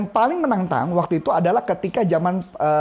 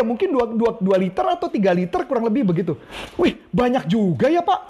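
sales roleplay. Shown as a demonstration. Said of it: "Ya, lanjut ya".

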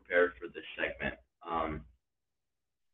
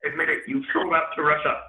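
loud, high puppet-frog greeting; Kermit the Frog; 7 semitones higher, 7 dB louder than usual. Acted. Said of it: "in the Kermit voice".

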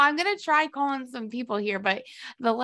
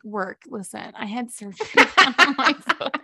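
pretend excuse; 7 dB louder than usual. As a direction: laugh breaking into a made-up excuse. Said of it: "What if I was like".

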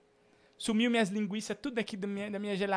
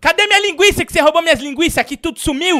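much higher, loud and fast; mock furious shout; 9 semitones higher, 13 dB louder, faster than usual. Host demanding his sausages back from the caller, screaming. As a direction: scream the accusation.

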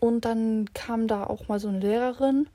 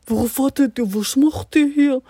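calling out to classmates; 3 semitones higher, 7 dB louder than usual. Retold or imitated. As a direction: hail the boys across the waiting area. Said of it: "und ich so".

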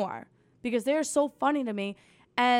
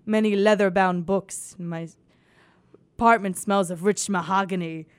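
Ron Burgundy quote; 5 semitones lower than usual. Retold or imitated. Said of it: "makes me think of Ron Burgundy".

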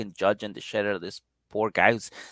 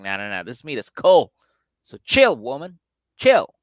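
put-on exasperated boyfriend; 5 dB louder than usual. Boyfriend telling his girlfriend to chill, louder. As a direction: tell her to calm down, loudly. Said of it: "And he's like".

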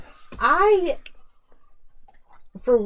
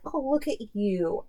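fake praise; 6 dB quieter than usual. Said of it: "I guess I should be like".

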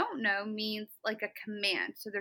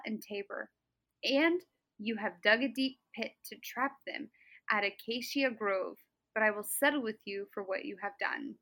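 sweetly announcing doom. Acted. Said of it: "very sweetly announcing doom".

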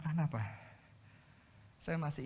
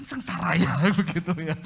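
loud, laughing through the words; 4 semitones higher, 11 dB louder than usual. Real, not acted. Preacher joking about servants' children serving his children, laughing loudly. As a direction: burst out over the absurd misery.

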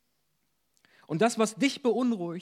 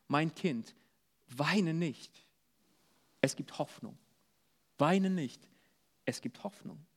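put-on softer, tender reassurance to a hurting child; gentle comfort; 3 semitones lower, 5 dB quieter than usual. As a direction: hush them gently, like a father soothing his child. Jesus speaks comfort to listeners. (leise und tröstend, wie zu einem weinenden Kind)

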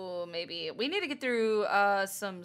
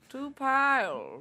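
hick voice; 5 semitones higher, much slower than usual. Pretend. S1 joins the bit.

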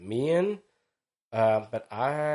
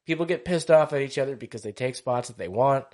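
laughing; 5 semitones higher, 6 dB louder than usual. Retold or imitated. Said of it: "I'm just like".

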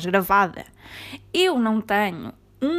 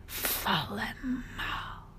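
whispered; 11 dB quieter, much slower than usual. Real, not acted.

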